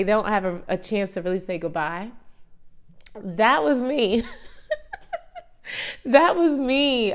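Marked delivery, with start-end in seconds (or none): 3.1-4.2 laughing admission. Real, not acted. Laughing at her own exit. 4.3-5.4 a high, breathless burst of laughter; high airy laugh. Real, not acted. Laughs at her own story. 6.1-7.1 louder and higher, laughing through it; laughing confession. Real, not acted. Laughing at her own exit.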